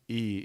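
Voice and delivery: "E" said as pure ee; name the letter "E" with an ee sound, not eye; Sanskrit-style vowel. Shown as a demonstration. Teacher clarifying the letter, "E" said as ee. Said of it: "it's not I".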